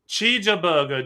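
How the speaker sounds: put-on "Cheeseburger" as chee-juh-buh-guh, Korean accent. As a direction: say "Cheeseburger" with Korean syllables and no English r. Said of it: "with a Korean accent".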